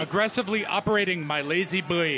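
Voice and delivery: would-be Canadian, sounding Scottish; botched Canadian accent. Acted. Team member pinch-hitting in a Scottish-sounding Canadian accent. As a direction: try Canadian and slip toward Scottish. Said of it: "Wait, that's Scotty".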